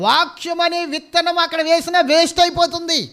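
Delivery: preacher pressing the congregation about dry churches; fiery preaching. Acted. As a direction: preach it out with full force. Preaching at full force.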